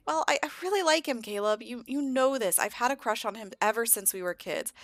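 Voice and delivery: a touch of earnest, high-voiced insistence; pleading sister. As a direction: plead your case to a brother. Sister defends crush to brother.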